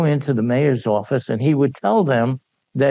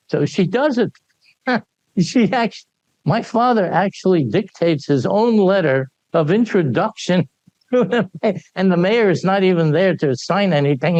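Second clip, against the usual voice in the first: laughing; 9 semitones higher, 4 dB louder than usual. Real, not acted. Story told through laughter.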